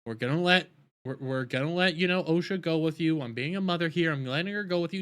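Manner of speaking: lightly voiced reassuring mother; mock reassuring mother. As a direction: play the calm, sensible mother.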